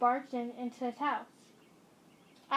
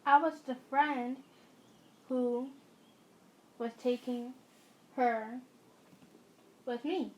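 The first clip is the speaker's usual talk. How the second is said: calm monotone; slower than usual. Acted. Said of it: "in a calm, monotone voice".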